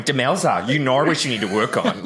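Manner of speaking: put-on Australian TV host accent; Jody. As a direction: quote an Australian host's catchphrase. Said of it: "walk around the house going".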